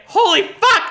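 high, loud cry of shock; startled outburst, replayed for laughs; retold alarmed yell. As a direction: yell it like the snake is chasing you. Retelling her panic at snake.

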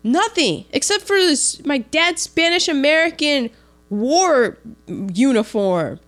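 emphatic storytelling. Retold or imitated. Big Daddy showing the suitcase.

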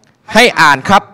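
a touch of a strict headmaster; stern principal. Retold or imitated. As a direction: snap at the boy to read, not spell. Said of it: "ครูใหญ่บอก".

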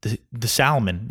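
salmon said with an audible L, SAL-mun; mispronounced. Retold or imitated. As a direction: repeat salmon with the silent L sounded. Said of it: "pronounce things wrong".

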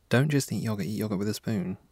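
quiet read. Acted. Repeats line to self.

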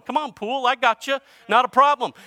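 goading him out into the alley; Howard's taunt. Retold or imitated. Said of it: "he's going".

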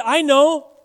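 high, loud, drawn-out mock eureka; hammed-up sudden idea; rich fool's bright idea. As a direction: play a fool hatching a plan, loud and slow. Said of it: "then he said".

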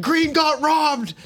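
put-on high, slow, drawn-out drunk call; slow, high drunken protest; drunk plea. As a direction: stretch every word like a tipsy fan. Drunk fan pleading to the king.

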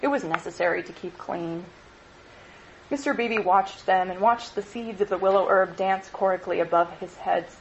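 usual speaking voice

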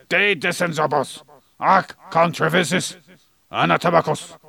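hammed-up magic incantation; magician casting a spell. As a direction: intone "De Dissensibus ac Controversies Anatomicus" like a stage magician. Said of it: "Imagine someone dressed up like a magician".

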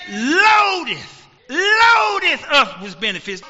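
slow then loud, stressing each word; building preaching. Real, not acted. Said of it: "preacher builds on the verse".

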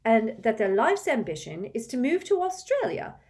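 put-on high, hard-pressed girl's voice; a girl scolding her friend who doubts her; fierce. A narrator's reading. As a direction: lay it out with tight fierce resolve. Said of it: "a rather fierce look".

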